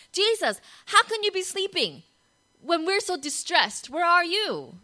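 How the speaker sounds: panicked plea. Acted. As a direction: beg for help in a panic. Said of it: "They're saying".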